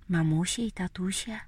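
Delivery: usual speaking voice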